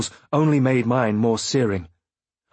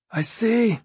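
higher, cold and cutting; harsh; 11 semitones higher than usual. A narrator's reading. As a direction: clip it off coldly. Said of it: "he said harshly".

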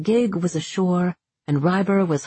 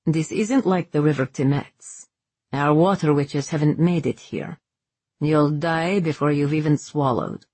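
firm orders in a lightly voiced character; understated princely officer; Merrick, commanding prince. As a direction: give instructions as a serious commander. Merrick gives orders to Ryber.

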